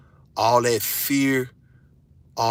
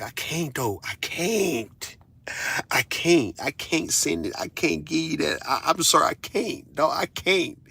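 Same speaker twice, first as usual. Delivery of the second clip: higher, whiny fake-apologetic "I can't"; mock pleading refusal; 5 semitones higher, slower than usual. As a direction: play the broke dad begging off, hammed-up. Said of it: "and I'm like".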